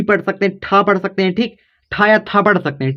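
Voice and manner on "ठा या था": retroflex ठा, then dental था; tongue curled for ठा, on teeth for था; two th sounds. Shown as a demonstration. Teacher giving learners both readings, ठा retroflex and था dental. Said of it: "ठा भी होता है".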